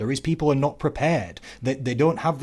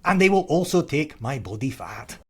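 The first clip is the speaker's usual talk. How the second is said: high, loud Scottish battle cry, slowing and easing down; rallying speech in a put-on Scottish accent; William Wallace; 6 semitones higher, 4 dB louder, slower than usual. Parodying the movie's freedom speech, Scottish accent. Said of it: "that's a pretty good accent".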